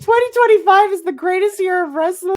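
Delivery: high, loud gushing shout; over-the-top fan rapture; ecstatic proclamation. Retold or imitated. Retold ecstatic reaction.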